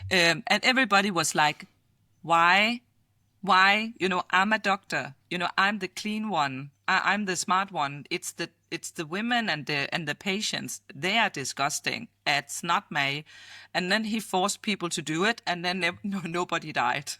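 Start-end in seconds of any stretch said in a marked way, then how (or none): 2.2-13.2 mock indignant doctor. Doctors scoffing at washing hands, mock indignant. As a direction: scoff like a doctor who thinks he's clean. Arrogant doctors mocking handwashing.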